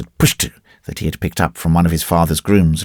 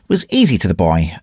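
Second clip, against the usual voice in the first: usual speaking voice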